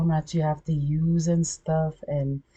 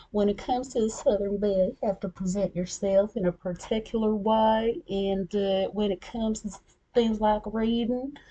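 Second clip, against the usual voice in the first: higher-pitched Southern belle accent; 6 semitones higher than usual. Shown as a demonstration. Demonstrating an audiobook voice, Southern belle accent. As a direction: play a Southern belle laying down manners. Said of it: "I got the Southern Belle".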